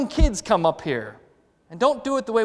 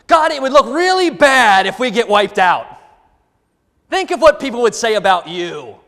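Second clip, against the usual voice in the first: paraphrasing Moses; 6 dB louder than usual. Retold or imitated. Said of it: "Moses puts it this way".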